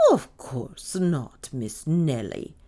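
very slow, drawn-out denial; injured virtue. A narrator's reading. Maid denying she eavesdropped, injured innocence. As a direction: deny it with wounded dignity. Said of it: "a study in injured virtue".

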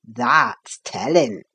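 low, slow, friendly workman; friendly teasing. A narrator's reading. Carpenter keeping his secret from the boy, friendly teasing. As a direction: keep it friendly and low, drawn out. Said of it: "he talked quite in the friendliest way".

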